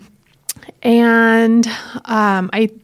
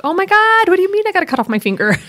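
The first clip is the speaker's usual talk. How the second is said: mock panic; 9 semitones higher, much faster than usual. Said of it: "I'm like".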